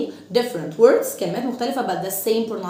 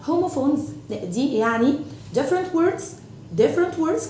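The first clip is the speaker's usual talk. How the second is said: slow, stressed "homophones" then higher "different words"; teaching emphasis; 5 semitones higher, slower than usual. Shown as a demonstration. Teacher to kids stressing "different words". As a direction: spell out "different words" clearly, pitched up. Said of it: "كلمات مختلفة but the same pronunciation".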